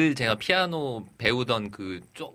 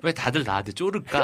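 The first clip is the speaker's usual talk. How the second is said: laughing. Real, not acted. Joking amid shared laughter.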